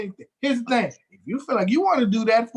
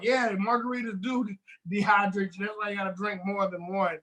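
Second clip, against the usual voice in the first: drunk imitation; 4 dB quieter than usual. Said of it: "You sound like a goddamn drunk".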